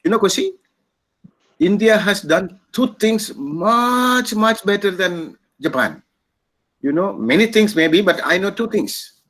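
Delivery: imitated Japanese accent, pitched high and slowed down. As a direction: retell it as the Japanese official, high, drawn-out Japanese accent. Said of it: "has that Japanese accent".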